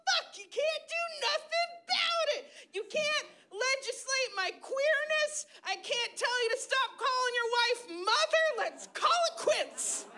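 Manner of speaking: high, mocking, laughing taunt; high gleeful taunt with a shout; mock taunting call. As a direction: crow it high at Mike Pence. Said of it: "I'm like".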